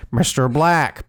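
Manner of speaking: "Mister Black" in a light put-on accent. Shown as a demonstration. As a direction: redo the name lightly in its accent. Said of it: "I need to say it with the accent".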